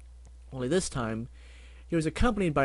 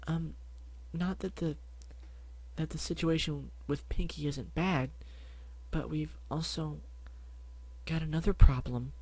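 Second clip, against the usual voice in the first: softer, hesitant shy pony; timid Fluttershy; 4 semitones higher, 3 dB quieter than usual. Acted. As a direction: barely dare to speak. Shy Fluttershy speaks softly.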